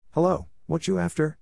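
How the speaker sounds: lightly voiced rough local man; a gruff stranger, a hint of threat. A narrator's reading. Stranger in orchard speaks.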